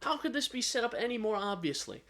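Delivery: high-pitched, stammering incredulity; mock disbelief. Player reacting to an obviously set-up scene, mock disbelief.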